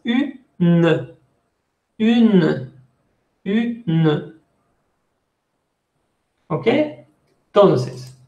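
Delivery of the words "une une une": "une" split as u-ne; two syllables. Shown as a demonstration. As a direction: separate the vowel from the "ne" in "une". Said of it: "se separa en dos sílabas".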